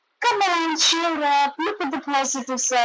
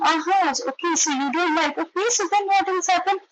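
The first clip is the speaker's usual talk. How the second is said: bright, higher curious questions; 7 semitones higher, faster than usual. Shown as a demonstration. Parent asking a child eagerly what happened. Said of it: "Get curious and ask more questions".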